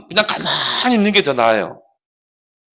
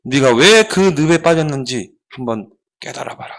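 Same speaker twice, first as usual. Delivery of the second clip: lecturing monk; 5 semitones lower than usual. Acted. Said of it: "눈을 감고 딱 눈을 떠고 뭐라 하냐면은".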